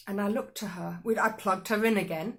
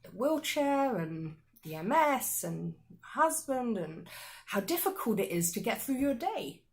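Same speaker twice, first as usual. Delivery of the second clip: awkward; 3 semitones higher than usual. Retold or imitated. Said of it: "I sounded so awkward".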